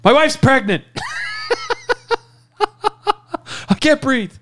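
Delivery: high, loud whiny mock pleading; mocking high whine. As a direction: whine each excuse in parody. Mocking suspect's excuses.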